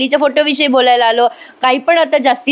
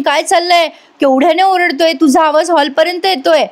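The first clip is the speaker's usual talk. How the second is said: higher, anxious scold; a mother rushing in and alarmed at the noise; worried mother scolding; 5 semitones higher than usual. Retold or imitated. Kalpanatai scolds Ashwin for shouting, in a higher anxious voice. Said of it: "कल्पनाताई म्हणतात".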